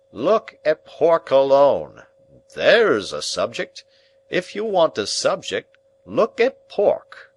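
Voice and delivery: pompous uncle. Acted. Uncle sermonising on pork at dinner, loud and rising. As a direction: climb up on the word pork.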